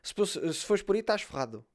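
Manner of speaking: put-on Brazilian-tinged kid. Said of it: "o puto assim para ele".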